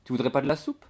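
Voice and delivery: a hint of an eager maid; lightly voiced chatty maid. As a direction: push the soup on him, lightly acted. Voices chatty maid Nastasia offering soup.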